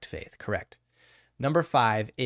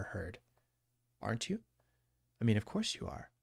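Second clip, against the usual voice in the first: hypnotherapy voice; 2 semitones lower, 5 dB quieter than usual. Shown as a demonstration. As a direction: lull the client gently into believing in themselves. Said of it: "you heard me slip into my hypnotherapy voice there".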